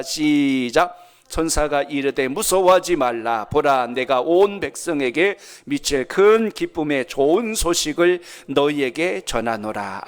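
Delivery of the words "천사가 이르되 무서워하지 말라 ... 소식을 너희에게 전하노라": slow, solemn reading aloud of scripture. Real, not acted. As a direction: read the verse slowly and firmly with the congregation. Congregation reads verse aloud together.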